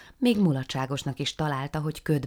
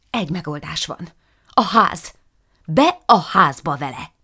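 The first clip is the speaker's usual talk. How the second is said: urgent decision; 3 semitones higher, 11 dB louder than usual. Acted. Sudden urgent idea.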